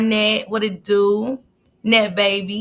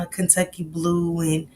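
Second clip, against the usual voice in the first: whispered quote; 2 semitones lower, 5 dB quieter than usual. Retold or imitated. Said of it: "And I was like".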